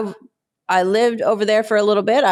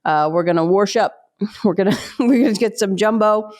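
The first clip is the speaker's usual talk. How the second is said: Pittsburgh grandma. Retold or imitated. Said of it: "she'd be like".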